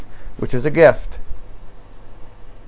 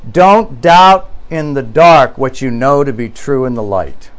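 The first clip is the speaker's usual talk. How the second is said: slow solemn quote; slower than usual. Retold or imitated. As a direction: read slowly and deliberately, letting "light" drop away. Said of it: "It's a very profound statement".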